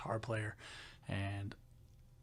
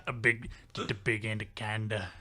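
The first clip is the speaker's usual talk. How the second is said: lightly imitated country voice; deep country coworker; 3 semitones lower than usual. Imitating the coworker repeating his scenario, deep country voice. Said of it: "he had a real deep down low voice".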